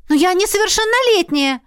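put-on a scandalised young woman; shocked girl. A narrator's reading. Heroine protests.

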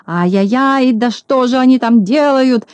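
high, loud cry of rage; furious cry. A narrator's reading. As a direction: yell red with anger. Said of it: "закричал Клопс, наливаясь от злости".

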